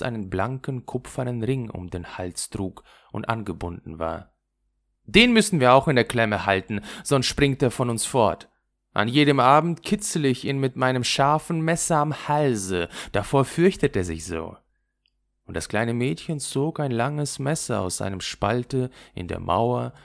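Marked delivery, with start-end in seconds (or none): 5.0-14.6 lightly voiced wild robber girl, boastful and louder; a hint of a rough little robber girl showing off. Räubermädchen prahlt mit dem Messer. (leicht gespieltes wildes Räubermädchen, prahlend)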